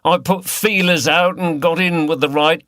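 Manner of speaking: lightly voiced Cockney villain; a hint of Cockney, harsh and taunting; Cockney accent. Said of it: "He spoke in a Cockney accent".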